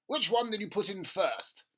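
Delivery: loud, high eager dad; an impatient father, keen and loud; excited father. Acted. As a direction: push him to show you, eagerly. Father voiced in story.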